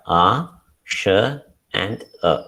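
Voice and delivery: slow, separated sounds "A", "Sh", "A"; sounded out. Shown as a demonstration. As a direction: sound out "A, Sh, and A" one by one. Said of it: "The sounds are".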